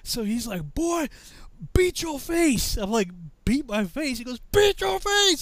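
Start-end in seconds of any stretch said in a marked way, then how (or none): 0.7-2.8 high, slow, drawn-out command; drill sergeant order. Retold or imitated. 3.4-4.2 higher, questioning recruit; mildly acted confusion; puzzled echo. Confused recruit repeats order. 4.5-5.4 high, loud sergeant command; barked repeat. Retold or imitated. Sergeant repeats order, louder.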